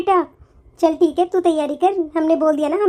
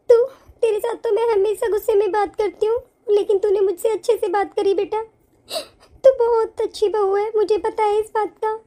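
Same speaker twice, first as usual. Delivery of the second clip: crying while praising her; choked-up thanks to a good bahu; tearful praise; 2 semitones higher than usual. Acted. Tearful apology to daughter-in-law. (रोते हुए तारीफ़)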